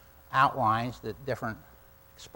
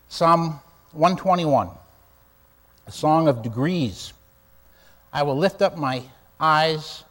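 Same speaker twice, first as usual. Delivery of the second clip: louder, slow, measured King James reading; solemn scripture reading; 4 dB louder than usual. Acted. Pastor reading the King James psalm to his church, solemn and slow. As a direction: lift each line of the psalm out to the congregation.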